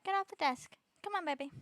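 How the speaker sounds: loud, high call to get off; high scolding call. Real, not acted. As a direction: shoo the cat away. Shooing pet off desk.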